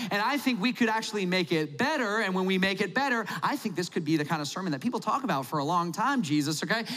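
schmoozing Jesus with chummy flattery; smarmy small talk. Retold or imitated. Host Simon buttering up his guest Jesus, mildly chummy put-on. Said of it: "And you're like".

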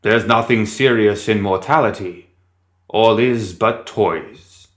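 grand theatrical stage delivery; dramatic actor. Acted. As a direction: declaim it like a Shakespearean actor. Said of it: "It mimicked a dramatic actor".

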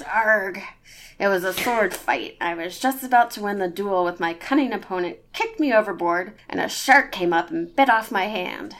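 put-on gruff storytelling pirate accent. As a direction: spin the yarn in a pirate accent. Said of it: "your pirate accent is spot on".

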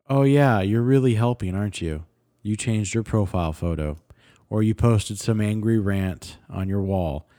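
dry, mocking approval; mock praise. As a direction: imitate someone unimpressed by empty gestures. Mocking those who change profile pictures.

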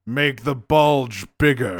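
bossy order broken by laughter; laughing emperor. Retold or imitated. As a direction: barely hold it together giving the order. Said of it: "this is how I feel this went".

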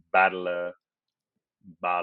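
"battler" tried slowly as an American-style "bottle"; meme-style mispronunciation. Shown as a demonstration. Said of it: "it's like one of the memes".

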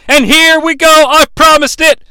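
high, excited build-up call; excited announcing. Acted. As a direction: announce the big moment. Announces the promised moment, excited.

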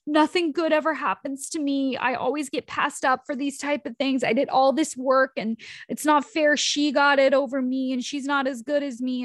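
mock the self-pitying employee; whiny victim. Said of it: "you could be at the effect where you're like".

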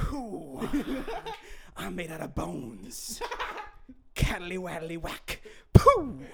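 slow, spooky creature voice ending in a burst; wobbly quivering jelly voice. Acted. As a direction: drawl it like a bony spirit. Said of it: "Did you say".

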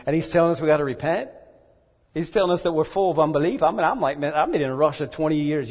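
self-mocking outrage at being called out; mock indignant. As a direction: bristle with wounded pride, building. Indignant retelling of his pride.

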